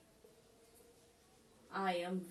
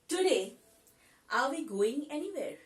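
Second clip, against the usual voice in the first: slow, clear teacher reading of the English line; slow model sentence; 3 semitones higher, 5 dB louder, much slower than usual. Shown as a demonstration. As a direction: say it slowly, word by word, for learners. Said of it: "তাহলে এটা আমরা কিরম ভাবে বলতে পারি".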